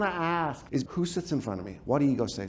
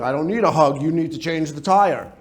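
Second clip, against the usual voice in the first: critical parent; 3 semitones lower, 4 dB louder than usual. Acted. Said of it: "Critical parents going".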